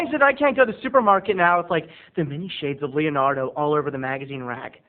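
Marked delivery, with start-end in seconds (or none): none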